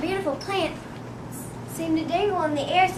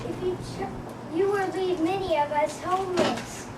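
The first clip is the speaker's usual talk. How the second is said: squeaky voice; 4 dB quieter than usual. Acted. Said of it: "In a squeaky voice, he piped".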